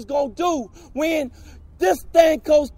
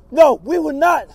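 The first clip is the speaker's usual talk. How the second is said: defiant shout. Real, not acted. Protester's defiant vow.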